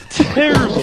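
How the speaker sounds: a high, botched English "Terrible"; one word in a failed English accent; bad English accent. Intern tries an English accent for the hosts and botches it. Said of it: "What the fuck was that?".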